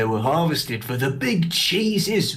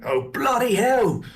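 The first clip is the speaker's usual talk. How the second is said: put-on dumb rat boy voice. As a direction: play a dim, eager rat kid. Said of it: "dumb rat boy voice".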